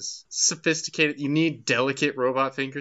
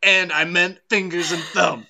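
sarcastic praise; 7 semitones higher, 8 dB louder than usual. Acted. Mock praise of a co-host.

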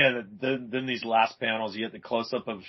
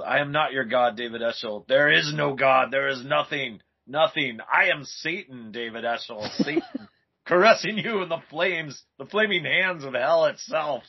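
lightly voiced Satan, raised and declaiming; theatrical villain speech, mildly played; acted Satan; 4 semitones higher than usual. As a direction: proclaim it like a hammed-up comic-book devil. Reads Satan's taunting speech from comic.

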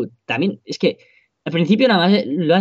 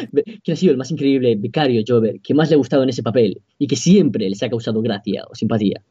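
Josep Pedrerol impression; 3 semitones lower than usual. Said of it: "Has imitado de puta madre".

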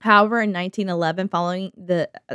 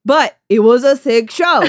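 loud, slow, higher mock bragging; hammed-up showman boast; a rapper's hype; 5 semitones higher, 9 dB louder than usual. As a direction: switch to shameless hype, stretched out loud. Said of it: "basically doing the rapper".

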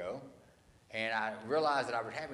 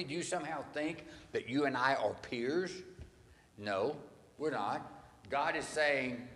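God confronting Job; 2 semitones higher than usual. Retold or imitated.

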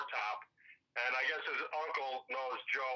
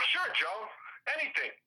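quoting himself; 6 semitones higher than usual. Retold or imitated. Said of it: "I go".

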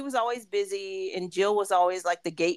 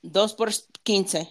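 slow vendor call; slower than usual. Shown as a demonstration. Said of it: "the short version".

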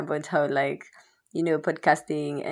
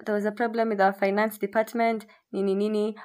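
customer service voice; 6 semitones higher than usual. Retold or imitated. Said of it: "they're like".

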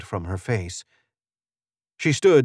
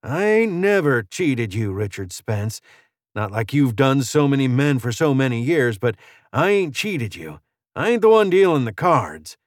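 defiant gunslinger, mildly raised pitch; lightly voiced stranger; 3 semitones higher than usual. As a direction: push back against the accusation.

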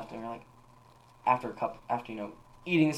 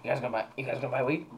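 gruff voice; much faster than usual. Retold or imitated. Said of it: "talked in, like, a more gruff voice".

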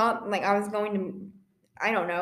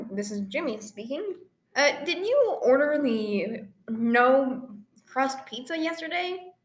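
mock pizza clerk. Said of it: "prank call someone with".

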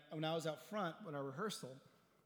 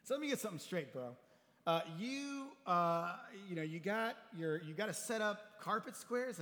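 kidding friend; 3 semitones higher, 3 dB louder than usual. Retold or imitated. Friend teasing the pastor about carpet squares, incredulous. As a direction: rib him like a mega-church friend. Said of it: "So kiddingly".

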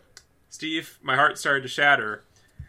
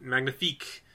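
French; 6 dB quieter than usual. Pretend. Switches to French word for praise.

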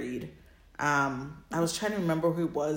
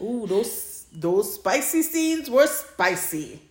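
teasing; 5 semitones higher, 3 dB louder, much slower than usual. Real, not acted. Teasing about spicy scenes.

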